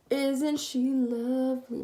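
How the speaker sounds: slow, hammed-up mock praise of her own face; fake-proud, drawn out like a joke compliment; lightly played mock pride, slow; mock admiring. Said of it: "No, I'm just joking".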